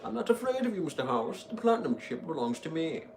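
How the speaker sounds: hammed-up brave courier; heroic retake. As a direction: redo it bold and defiant. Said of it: "I said that so horribly".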